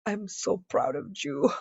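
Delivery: lightly voiced doting Mexican mother; proud Mexican mom. Mexican mom on the phone praising her daughter, doting. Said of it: "her Mexican mom was like".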